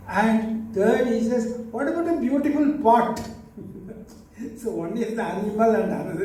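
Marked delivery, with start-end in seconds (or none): 1.7-3.2 mocking question. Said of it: "he would ridicule us".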